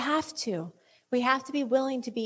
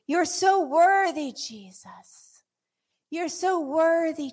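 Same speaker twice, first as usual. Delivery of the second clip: tender worship; 3 semitones higher, slower than usual. Acted. Soft worship after the peak.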